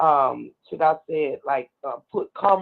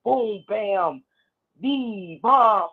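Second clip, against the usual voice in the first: drawn-out mock bass booms; imitating loud car speakers; 4 semitones higher, much slower than usual. Caller describes music blasting from young people's cars, imitating the booms. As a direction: sound out each thump of the speakers. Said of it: "you hear all this loud".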